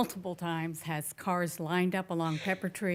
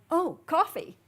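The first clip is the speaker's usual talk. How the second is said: a quick, much higher voice for an impulsive driver; mock sudden driver; 9 semitones higher, 4 dB louder than usual. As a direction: toss it off like a driver who suddenly wants coffee. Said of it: "all of a sudden are going".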